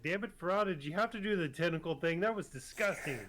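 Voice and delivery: mock-annoyed shout from above. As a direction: yell it down to the beach in disgust. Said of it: "Tercel shouts down".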